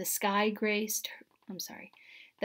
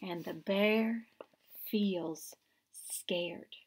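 soft, whispered and slow; hushed refrain; 2 semitones lower, 5 dB quieter, much slower than usual. A narrator's reading. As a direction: let the fear hang in a whisper.

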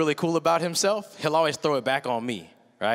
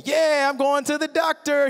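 higher, louder giddy cheer; excited kid; 9 semitones higher, 4 dB louder than usual. Retold or imitated. Dad voicing his excited son going to the doctor. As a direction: bounce it like a hyped boy. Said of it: "on cloud nine".

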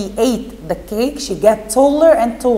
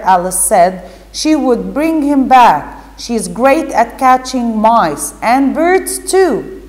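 lively storybook reading voice, a bit louder; teacher reading a story to pupils; reading to children; 4 dB louder than usual. Acted. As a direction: read the story aloud to the class with expression. Teacher reads Alice story aloud.

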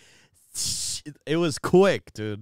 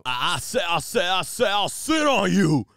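mock Southern accent; 7 semitones higher, 7 dB louder than usual. Host riffing on sitting on it, hammed-up Southern accent. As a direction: build a stuttered Southern bluster to a shout.

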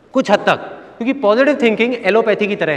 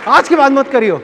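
much higher, loud enraged father shouting; furious father; 10 semitones higher, 3 dB louder than usual. Retold or imitated. Father yells louder each time mother pleads, furious. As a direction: lose it completely, yelling at the boy. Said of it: "father now angrier".

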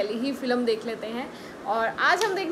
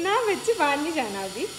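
higher, coaxing pet talk; talking to the dog; 4 semitones higher, 3 dB louder than usual. Real, not acted. Owner soothing her dog before she leaves, high pet talk. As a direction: coax the dog gently, pitched up.

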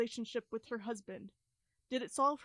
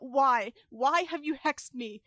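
raised, louder cry of accusation; mock yell; 2 semitones higher, 6 dB louder, slower than usual. Echo's dream voice yelling at the sleeper. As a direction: call out in anguish, pushing louder. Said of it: "when you are yelling out".

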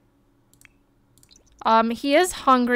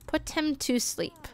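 much softer, murmured prompt; hushed bedtime prompt; soft reading; 4 semitones higher, 8 dB quieter than usual. Real, not acted. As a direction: say it gently, like a lullaby. Reads the prompt softly.

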